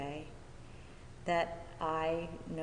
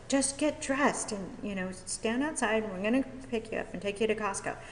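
retold bossy friend, pitched up; insistent friend; 5 semitones higher than usual. Friend ordering her out to Costco, insistent. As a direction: imitate a friend brushing off questions.

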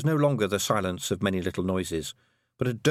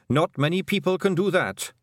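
much higher, excited little Feagle voice; Rob Anybody; 9 semitones higher, 4 dB louder than usual. A narrator's reading. Rob Anybody backing the kelder, high and eager. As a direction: brag about the wee hag, high and eager.

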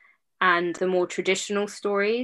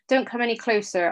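spat defiance; 4 semitones higher, faster than usual. Acted. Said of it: "I spat".

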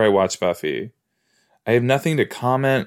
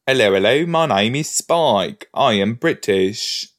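mock Spike. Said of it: "he needs to choose a region".

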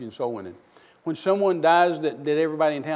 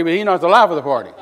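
louder, stress on "life"; loud denial; 8 dB louder than usual. Acted. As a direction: preach "he's not the life of the party" out loud, hitting "life". Preacher rebuts friend's quote.

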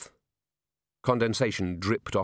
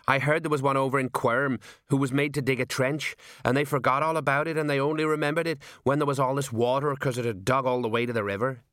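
higher-pitched sergeant telling a tall tale; gossiping sergeant; 4 semitones higher than usual. Acted. Sergeant tells a guard about daft golems, gossipy voice. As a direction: run on like a sergeant with hearsay. Voices Colon, a story character.

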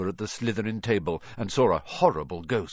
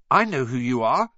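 put-on louder, higher boy's voice; sudden blurt; 3 semitones higher, 6 dB louder than usual. A narrator's reading. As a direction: blurt it out quickly. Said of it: "said Ron suddenly".

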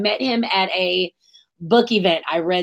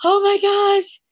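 high, thrilled gasp of joy; excited; 12 semitones higher, slower than usual. Retold or imitated. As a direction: squeal it with delight. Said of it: "I was so excited 'cause I was like".

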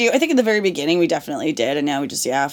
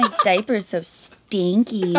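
put-on slow whiny baby talk; playing a fussy baby; 3 dB quieter, much slower than usual. Continues baby voice bit.

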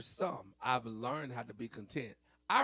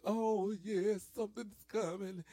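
mock anticipation; 8 semitones higher than usual. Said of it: "make you be all like".

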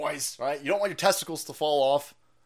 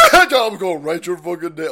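louder, laughing restatement; a louder, amused repeat of the threat; 6 dB louder than usual. Real, not acted. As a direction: laugh as you say it again, louder. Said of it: "I'm gonna write your fucking name down".

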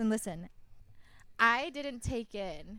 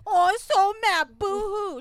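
high, loud mock pout; mocking whine; 9 semitones higher, 10 dB louder than usual. Mocking the ex who lost his record, high mock whine. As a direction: whine it back like a sulking baby. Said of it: "mocking the angry ex".

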